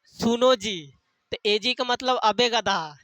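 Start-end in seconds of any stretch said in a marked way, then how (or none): 0.1-0.9 wife calling husband. Retold or imitated. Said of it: "औरत अपने आदमी को क्या बोलती है".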